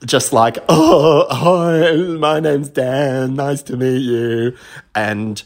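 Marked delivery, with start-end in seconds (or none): 0.7-4.5 retold breathless greeting. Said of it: "I'm huffing and puffing".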